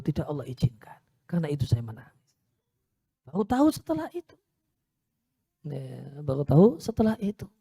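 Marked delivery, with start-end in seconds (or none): 0.0-2.3 Prophet's sorrowful words. Retold or imitated. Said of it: "Nabi cerita".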